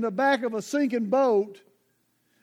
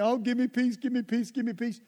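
mock whiny plea; 4 dB quieter than usual. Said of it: "just falls on you".

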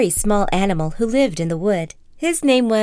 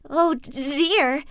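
slow, higher stammering fright; frightened Piglet; 6 semitones higher, slower than usual. Acted. Piglet diving under the bed, slow scared stammer. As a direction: quaver like a scared little pig. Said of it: "Piglet cried".

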